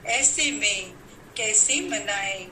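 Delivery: measured, declaimed verse with pauses between phrases; poem recital. Acted. Poet to fellow poets on Vijayadashami, declaimed festival verse. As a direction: recite it line by line to a poetry gathering.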